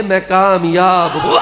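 triumphant quote. Acted. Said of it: "Ali ने कहा है".

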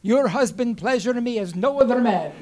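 lightly voiced Romanian accent; Eastern European accent. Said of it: "in her beautiful Eastern European accent".

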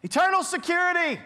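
high, hammed-up yelling kid; kid screaming. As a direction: call out like a drowning kid. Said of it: "he's screaming out loud".

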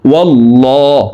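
ওয়াল্লাহ with a thick, dark l and rounded o; held heavy l in ওয়াল্লাহ; heavy lam. Shown as a demonstration. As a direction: say ওয়াল্লাহ as a full, heavy "wallo". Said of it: "এই লামকে ল বলে পড়ব".

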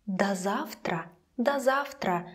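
"До завтра" with до as "da". Shown as a demonstration. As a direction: open a in до of "До завтра". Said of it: "pronounced like да".

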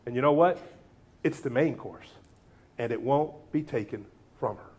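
Jesus kindly rebuking Martha; gentle rebuke. Acted. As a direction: gently chide a worried friend. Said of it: "but so gentle".

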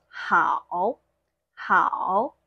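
"hao" dipping down and then rising; full third tone. Shown as a demonstration. Teacher shows a single third-tone word, dipping then rising. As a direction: say "hao" with the whole dip and lift. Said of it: "Third tone by itself".

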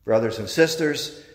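chanted closing formula of the reading; liturgical acclamation. Acted. Priest closing the Gospel before the congregation, ceremonial. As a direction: proclaim it, then lead the response.

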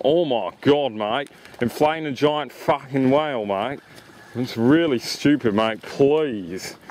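lightly hammed-up ocker Australian accent, heavy on mate; mock Aussie accent. To Tim, imitating local gawkers in a mock Australian accent. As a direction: play a blokey Aussie passerby in a mild Australian accent. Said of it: "And more like".

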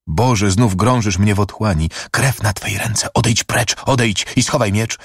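high-pitched, anguished cry to God; acted horror, voice rising; horrified recoil. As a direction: drive him away in dread. Recoils at blood, sends him away.

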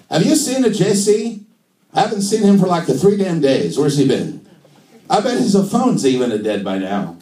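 high, animated mock Italian, easing down; sing-song stand-up Italian; comic Italian accent. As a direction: apostle gossiping in hammed-up Italian. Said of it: "do Jesus in an Italian accent".

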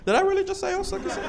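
high, startled self-check; high incredulous self-question; surprised at himself. Real, not acted. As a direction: catch yourself, shocked.

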